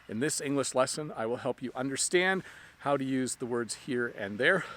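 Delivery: breathless after a run; out of breath. Real, not acted. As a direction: talk while catching breath. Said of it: "Sorry, I'm a little bit out of breath".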